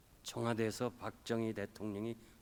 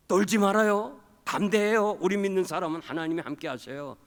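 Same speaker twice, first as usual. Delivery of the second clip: bold exhortation; 7 semitones higher, 9 dB louder than usual. Retold or imitated. Wife urging him to be bold.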